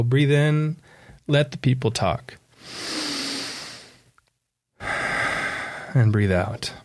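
slow, settling instruction with long pauses; guided meditation. Shown as a demonstration. Author leading a breath while people talk, meditative. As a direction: ease down into the out-breath. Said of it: "a little bit of a guided meditation".

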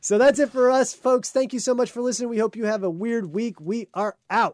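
upbeat podcast host wrapping up; host sign-off. Acted.

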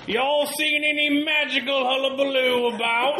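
lightly voiced old-timey gent; Stony Smithson voice. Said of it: "Stony Smithson here".

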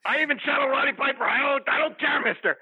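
lightly played wrestler hype voice; wrestling promo. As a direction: hype up the roster. Promo character lists wrestlers.

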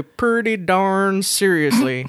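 drawn-out, put-on Texas drawl; playful mock Texan accent; fake Southern accent. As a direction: ham up a slow Southern twang for fun. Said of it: "I have something against your Southern".

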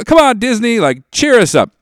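hammed-up exasperated plea; mock plea. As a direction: beg the studio to lighten up. Begging Disney for cheer.

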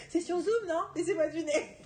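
talking through laughter; speaking while still laughing. Real, not acted.

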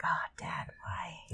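whispered, exasperated plea to dad; embarrassed whisper. Retold or imitated. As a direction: hiss it in quiet embarrassment. Embarrassed son voiced, whispered.

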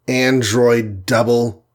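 slow disbelieving repeat of "Android double?"; echoed in surprise. Acted. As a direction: echo "Android double?" slowly as a question. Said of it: "echoed Iron Man".

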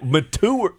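"mature" with a hard t, muh-TOOR; rejected variant. Shown as a demonstration. Co-host rejecting that version, "mature" as muh-TOOR. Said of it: "It's definitely not mature".

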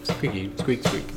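soft squeaky mouse noises; rubbery high squeaky toy. Pretend. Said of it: "You speak mouse?".

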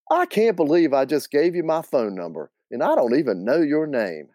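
lightly voiced incredulous aunt; Aunt Hallie. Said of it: "do my best Aunt Hallie and Linda".

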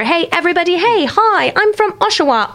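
hammed-up London bloke voice; mock British accent. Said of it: "says the colonizer".

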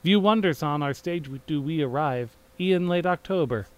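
theatrical rhymed verse, declaimed to an audience; Shakespearean prologue reading. Acted. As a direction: announce the prologue like a chorus on stage. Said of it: "you read those different, the prologue".

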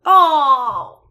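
high, loud laughing shock. Real, not acted. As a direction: laugh it out in disbelief. Shocked by sad plot twist.

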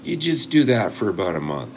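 put-on old coot's drawn-out American accent; slow, lifted mock-American instructor voice. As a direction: imitate an old American picker, drawing out the words. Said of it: "I'm doing your American accent".

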